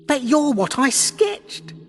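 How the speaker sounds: high, loud, drawn-out amazement; astonished. Acted. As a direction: blurt it out in stunned disbelief. Tegan amazed at the transformation.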